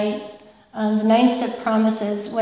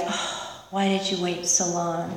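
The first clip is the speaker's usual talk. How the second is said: soft whisper trailing off quieter; whispered relief; 5 dB quieter, slower than usual. Retold or imitated. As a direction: sigh it out as if relief has finally come. Relief of the first drink.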